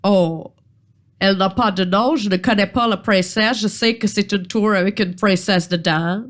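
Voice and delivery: put-on lightly British-accented troll; genteel explanation in mild British-accented French. Troll admits not knowing the princess, mild British accent. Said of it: "charmant accent britannique".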